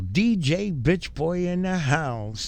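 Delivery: slow, drawn-out mock club announcer; mock DJ hype. Mocking the rapper with a slow hype call. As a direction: announce him like a joke DJ.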